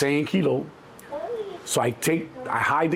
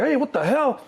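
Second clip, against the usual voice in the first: high-pitched startled protest; indignant driver; 10 semitones higher than usual. Retold or imitated. Driver to man who jumped aboard, indignant. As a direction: challenge him in a raised pitch.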